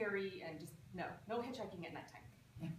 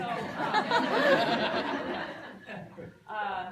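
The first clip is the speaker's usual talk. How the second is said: big laugh; 2 semitones higher, 12 dB louder than usual. Real, not acted. Storyteller bursting out laughing at her own joke. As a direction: crack up mid-story.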